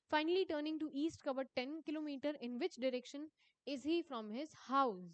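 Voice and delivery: reading the exam question aloud, slowly and deliberately. Acted. Teacher reading a quiz question to her students, slow dictation. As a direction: dictate each word to the class.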